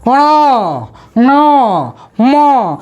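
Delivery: ण न म each said through the nose; nasal letters demo. Shown as a demonstration. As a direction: hum ण, न, म through the nose one by one. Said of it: "थोड़ा नकिया करके बोलेंगे". (ण, न, म नाक से बोलें)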